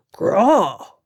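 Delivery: a lightly voiced, cheerful troll grunt; a friendly creature's sound, cheerful. A narrator's reading. Troll answers again.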